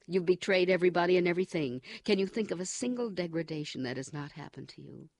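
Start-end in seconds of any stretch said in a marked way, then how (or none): 0.0-1.8 relentless escalating tirade. Acted. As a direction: hammer each humiliation harder. O'Brien lists Winston's degradations.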